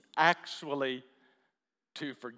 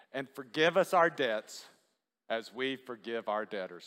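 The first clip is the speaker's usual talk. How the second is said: prayer recitation; 2 semitones lower than usual. Real, not acted. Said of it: "Let's just say this together".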